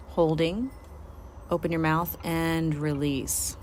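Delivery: measured, instructional relaxation voice; guided meditation. Acted. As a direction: talk them through each step, pausing between cues. Leads a guided body-scan meditation.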